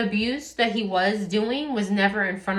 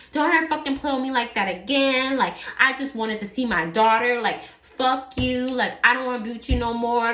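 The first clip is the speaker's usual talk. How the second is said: a touch louder and higher, clipped, hostile husband; retold angry threat; 4 semitones higher, 3 dB louder than usual. Husband with a gun in her face, mildly voiced rage. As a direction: snarl it at her like a husband losing control. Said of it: "just being very rude and mean".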